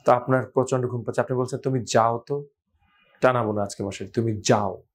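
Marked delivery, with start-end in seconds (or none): 1.6-4.8 half-asleep, mumbling someone away; sleepy voice. Retold or imitated. Sleepy person telling mother to go away, drowsy and slurred. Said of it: "ঘুমন্ত অবস্থায় যাও কথাটা কিন্তু শোনাবে".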